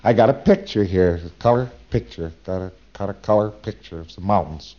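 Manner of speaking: mildly pleased announcement that trails off; proud. Retold or imitated. Preclear boasting to the auditor about his picture, lightly proud. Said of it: "P C very proudly says".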